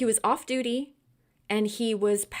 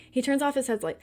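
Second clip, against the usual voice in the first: ordinary talk, nothing marked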